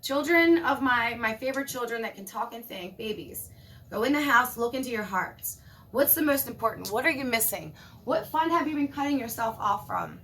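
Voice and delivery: a hint of a tender mother calling her children; lightly voiced Mother Earth, coaxing. Mother Earth gently calling her children inside. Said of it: "Mother Earth is saying".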